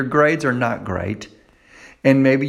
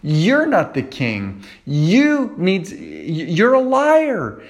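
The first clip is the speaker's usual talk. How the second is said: Jesus rebuking Satan; 4 semitones higher than usual. Acted. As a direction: answer the liar with authority. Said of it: "He said".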